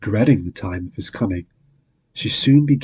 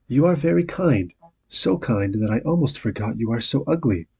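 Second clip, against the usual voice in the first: mild earnest; 3 semitones higher than usual. Acted. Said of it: "said Beauty earnestly".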